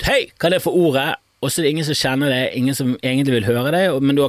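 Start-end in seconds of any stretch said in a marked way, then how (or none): 0.0-1.2 higher-pitched, mildly raised call; mock call-out. Party guest demanding the floor, mock call-out. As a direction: pretend to call out for attention. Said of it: "ropt ut".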